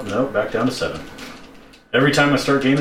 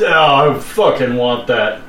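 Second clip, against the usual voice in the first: excited craving; 2 semitones higher, 6 dB louder, slower than usual. Real, not acted. Seeing the Lego set.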